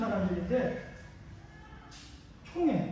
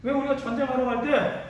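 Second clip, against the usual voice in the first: voicing indignant rebels, building louder; mild acted protest, growing more forceful; confrontational challenge; 3 semitones higher, 4 dB louder than usual. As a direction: demand answers like an aggrieved accuser, voice rising. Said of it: "제가 이렇게 따지는 거야".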